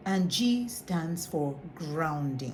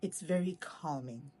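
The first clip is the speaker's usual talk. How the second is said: soft calming; 6 dB quieter than usual. Shown as a demonstration. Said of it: "something amazing happens".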